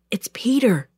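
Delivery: partly whispered answer through a door; stage whisper. A narrator's reading. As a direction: half-whisper it so only she hears. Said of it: "Peter whispered".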